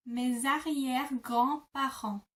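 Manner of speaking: mes arrière-grands-parents joined up at a calm pace; whole phrase recap. Shown as a demonstration. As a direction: put the pieces back together. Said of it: "break that down even further".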